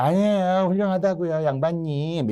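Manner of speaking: high-pitched placating protest; acted servile excuse; feigned obedience. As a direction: sweet-talk the master insincerely. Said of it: "겉으로는 막 복종하는 채".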